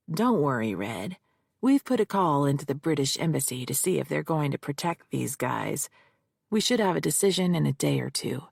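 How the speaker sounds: a hint of a gruff cop, rattled off fast. Jake voiced on the phone.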